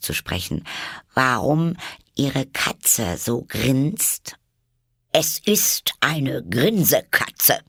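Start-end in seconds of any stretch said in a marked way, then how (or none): 1.1-4.4 slightly anxious. A narrator's reading. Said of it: "fragte Alice etwas ängstlich". 5.1-7.6 hushed, slow whisper. A narrator's reading. Duchess whispering the answer to Alice.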